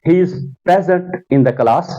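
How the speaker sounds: "present" said PREZ-ent, first syllable stressed; slow model sentence, strong PRE in "present"; noun stress. Shown as a demonstration. Teacher modelling noun use for students, PREZ-ent. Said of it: "इस वक्त ये noun इस्तेमाल हो गया".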